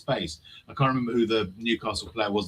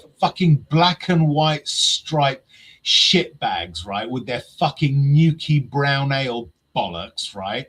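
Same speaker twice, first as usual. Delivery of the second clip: ranting. Real, not acted. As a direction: vent like an angry fan. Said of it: "I'm just gonna rant a little bit".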